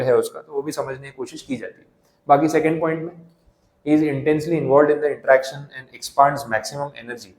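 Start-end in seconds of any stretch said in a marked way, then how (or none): 3.9-7.3 slow, deliberate reading of the slide; unhurried dictation pace. Shown as a demonstration. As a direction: read it word by word for notes. Reads definition slowly.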